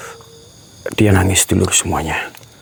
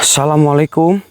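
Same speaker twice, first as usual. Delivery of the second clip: higher, rising greeting call; 6 semitones higher than usual. Real, not acted. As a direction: call out and wait for an answer. Calling greeting to unseen woman. (salam memanggil dengan nada tinggi)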